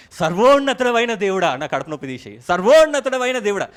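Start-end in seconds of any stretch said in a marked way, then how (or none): 0.1-1.6 lightly louder, pompous copy of the prayer; mock grand invocation. Preacher mocks his own borrowed prayer words, a bit louder. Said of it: "నేను కూడా అవే". 2.5-3.7 lightly louder, pompous copy of the prayer; mock grand invocation. Preacher mocks his own borrowed prayer words, a bit louder. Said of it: "అదొక trick అనుకుంటుండే".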